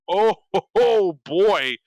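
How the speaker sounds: high, loud, laughing eager cry; gleeful Thrasymachus. Retold or imitated. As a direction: rub your hands, finally your turn. Thrasymachus voiced eager to answer.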